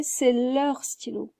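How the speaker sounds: C'est leur stylo, said slowly and clearly; slow model sentence. Shown as a demonstration. Teacher gives the answer slowly for the learners. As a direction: lay out the answer word by word. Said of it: "donc je dirais".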